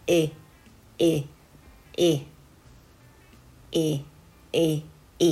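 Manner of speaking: え said as a lax sound between i and e, as in ink; short, loose え, each one separate; relaxed short I. Shown as a demonstration. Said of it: "ちょっと脱力させて".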